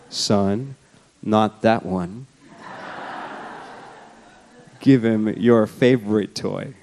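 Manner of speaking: a hint of Mufasa laying down the law to his cub; Mufasa-like father. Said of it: "Lion King sort of Mufasa Simba moment".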